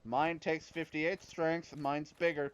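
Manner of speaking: slow, smug bragging; mock boast. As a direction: drag it out like a show-off. Boasting about weapon size.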